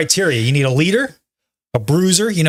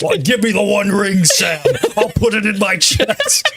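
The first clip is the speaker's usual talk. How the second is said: laughing parody; 5 semitones higher than usual. Retold or imitated. Parody Transformers line.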